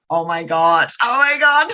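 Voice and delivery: stunned then thrilled; excited. Retold or imitated. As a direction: build from hushed awe to a thrilled cry. Overwhelmed by medium's answer.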